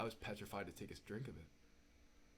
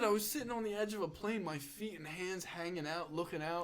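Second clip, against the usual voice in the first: higher and louder, amused exasperation; laughing disbelief; 8 semitones higher, 9 dB louder than usual. Retold or imitated. Telling mom about the plane and the drink, higher and louder. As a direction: build up in amazed self-mockery. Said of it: "I said".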